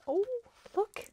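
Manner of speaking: high, loud burst of delight; pointing out a treat; excited. Real, not acted. Viewer sees a new gift, sudden high excited call. Spots something in parcel.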